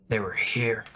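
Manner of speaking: gravelly whisper, no voice; whispered echo. Acted. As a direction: breathe it out in a rasp. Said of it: "dark, gravelly voice".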